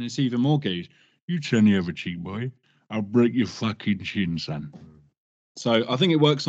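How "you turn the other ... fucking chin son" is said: Lenny McLean. Retold or imitated. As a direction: growl it like an East End enforcer. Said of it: "if you go Lenny McLean".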